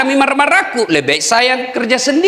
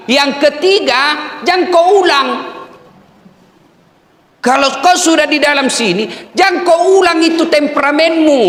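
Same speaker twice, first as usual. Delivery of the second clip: stern warning; 6 semitones higher than usual. Real, not acted. Preacher's loud warning.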